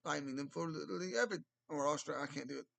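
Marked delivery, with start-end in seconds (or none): 0.0-1.4 put-on fast, slipping into an Aussie accent; the British try drifting into Australian; accidental Aussie accent. Streamer retrying the host's line, comes out Aussie accent. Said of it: "More of an Aussie thing coming up".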